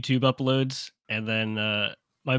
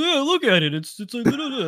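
mock insistent; 12 semitones higher than usual. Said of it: "He's like".

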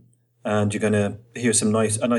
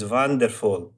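put-on German accent with wonderful said as vonderful; slower than usual. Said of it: "what you're gonna hear from Tenzin is often he says".

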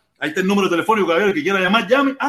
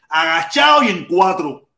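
shouted jab; 4 dB louder than usual. Real, not acted. Angry rant punchline.

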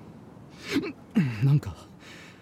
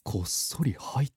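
sly whisper; 13 semitones lower, 8 dB quieter, slower than usual. Acted. Dog plotting sneaking in.

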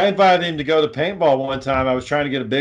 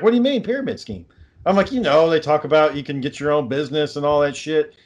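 imitating the lady. Garden center lady voiced in retelling.

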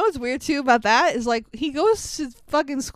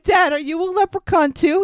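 mock alarm; 6 semitones higher, 4 dB louder than usual. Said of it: "And he's like".

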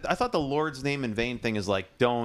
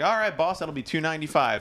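higher-pitched, casual counter voice; imitated cashier; 5 semitones higher than usual. Cashier giving a customer the total, high and chummy.

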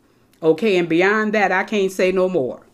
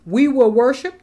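we lifted and louder; stress on we; 4 semitones higher, 5 dB louder than usual. Shown as a demonstration. Preacher reminds the congregation Abraham said we. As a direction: punch we, rising. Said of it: "notice that Abraham said "we".

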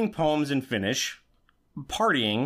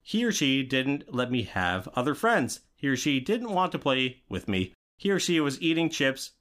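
lightly robotic, even reading voice. Pretend. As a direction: read it like a robot, evenly. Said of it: "I'm talking like a robot".

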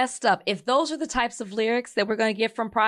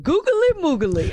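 gleeful quote; 8 semitones higher, 4 dB louder than usual. Retold or imitated. Quoting lyric.

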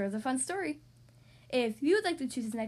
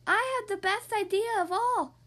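higher, louder proud mummy; boastful mummy voice; 7 semitones higher, 4 dB louder than usual. Acted. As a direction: brag like a show-off.

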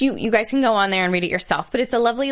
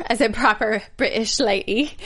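put-on British accent. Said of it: "when we do the British accent".

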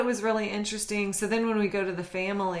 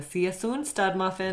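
Minnesota accent. Shown as a demonstration. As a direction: say it with a hint of Minnesota.

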